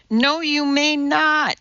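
high, slow, drawn-out refusal; restrained screech of exasperation. A narrator's reading. Teacher refuses Madeline permission, screeching. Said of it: "Missus Mudford screeched".

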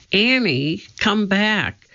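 high, urgent call; calling after someone. A narrator's reading. Jack calls to Annie up in the treehouse, calling. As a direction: call up to bring someone back.

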